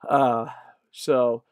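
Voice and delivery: tripping over the words; stuttering. Real, not acted. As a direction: restart the phrase, stumbling. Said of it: "stuttering here".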